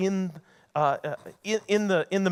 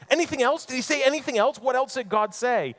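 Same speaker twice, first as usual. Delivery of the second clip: put-on much higher, louder, excited old man; eager Eli; 8 semitones higher, 5 dB louder than usual. Eli eagerly asks Samuel what God said, high and excited. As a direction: burst out eager to hear the news.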